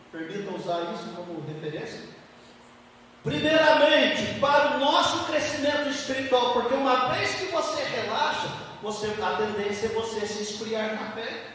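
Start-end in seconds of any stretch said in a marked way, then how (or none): 3.2-8.5 emphatic preaching. Acted. Preacher urging spiritual growth on the church, emphatic preaching. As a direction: press the point on the congregation.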